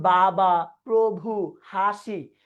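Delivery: বাবা, প্রভু, হাসি each ending on a free vowel; open syllables. Shown as a demonstration. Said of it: "ধ্বনিটা মুক্ত রূপে". (বাবা, প্রভু, হাসি শেষ ধ্বনি মুক্ত রেখে)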